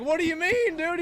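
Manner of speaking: stunned, half-laughing question; baffled disbelief. Retold or imitated. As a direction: ask it like you can't believe your ears. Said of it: "I'm like".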